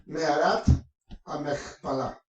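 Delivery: "Mearat a Machpelah" with a throaty ch and final stress; Hebrew pronunciation. Shown as a demonstration. Preacher reading the transliteration, Hebrew pronunciation of "Mearat a Machpelah". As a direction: sound out "Mearat a Machpelah" in Hebrew, pausing after Mearat. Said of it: "esa es la transliteración del hebreo".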